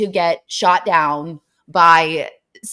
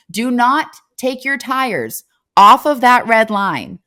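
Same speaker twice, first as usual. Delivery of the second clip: stern guard warning; 3 semitones higher, 5 dB louder, slower than usual. Retold or imitated.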